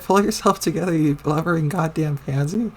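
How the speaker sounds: angry repeat, pushing the voice up. Acted. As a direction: bark it again, harder this time. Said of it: "I said".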